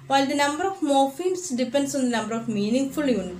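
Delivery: slow, careful definition read in English; textbook reading. Shown as a demonstration. Teacher reading the definition to students, slow and deliberate. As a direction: read the definition out slowly to the class.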